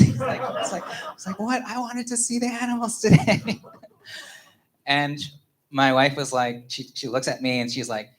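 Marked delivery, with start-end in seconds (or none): 1.4-3.6 high-pitched mock wail, breaking into laughter; hammed-up tearful child voice; crying son. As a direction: imitate a heartbroken kid, laughing at it. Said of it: "crying and he's like".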